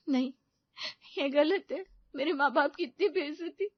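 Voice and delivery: Rina, crying after her parents are humiliated, protests tearfully. Acted. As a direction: cry out against the insult. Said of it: "Reena रोने लगी।".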